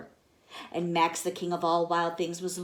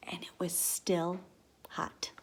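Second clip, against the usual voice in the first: hushed ending; whisper; 6 dB quieter than usual. Acted. Teacher ending the story, whispered. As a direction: share a cozy secret.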